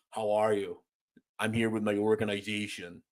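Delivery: low-key imitation of a Montreal accent. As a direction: mimic a Montreal accent, mildly. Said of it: "I like the Montreal accent".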